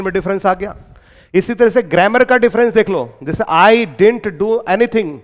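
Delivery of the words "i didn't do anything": very slow, word by word; standard English example. Shown as a demonstration. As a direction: dictate each word slowly. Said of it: "standard English में बोलते हैं". (धीरे धीरे शब्द दर शब्द)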